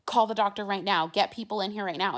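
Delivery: imitating the nurse yelling for help; urgent yell. Nurse yelling into the call button, mock urgent shout. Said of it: "she just starts yelling into it".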